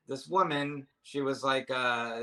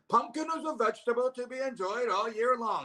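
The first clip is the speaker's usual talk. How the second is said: high-pitched, bad Australian accent rant; terrible Australian accent; 12 semitones higher, 4 dB louder than usual. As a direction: yell it in a hammy fake Australian accent. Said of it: "That was my Australian accent".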